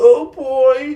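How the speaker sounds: frightened, high-pitched, loud. Speaker retelling a film scene after the general shakes his head; mock-scared voice. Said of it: "in like a scared voice now".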